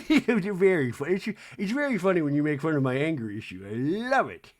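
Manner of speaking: put-on tittering voice; mock giggling. Meredith laughing about her anger issue, mock giggly. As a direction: imitate someone tickled by being teased, giggles at both ends. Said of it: "Meredith's giggling".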